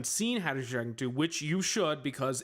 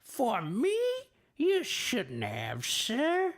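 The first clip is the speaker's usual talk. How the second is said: higher put-on cartoon rabbit, with a slow middle; bad Bugs Bunny; 11 semitones higher, much slower than usual. Streamer's admittedly bad rabbit voice for viewers. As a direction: ham up the rabbit, knowing it's off. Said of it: "That was kinda bad".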